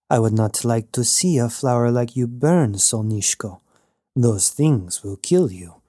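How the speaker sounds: a hint of a charming rogue, gently; warm breeze voice. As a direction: Knox flirting with Jazz, mildly warm. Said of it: "His voice was like a warm breeze".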